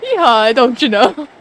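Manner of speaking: loud mock southern-Canadian twang; jokey southern accent sliding into Canadian; badly faked cowboy with a Canadian lilt; botched southern-Canadian accent. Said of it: "Is that yeehaw in Canadian?".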